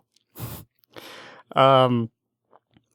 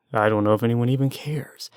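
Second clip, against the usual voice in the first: whispered aside. Real, not acted. Aside under breath.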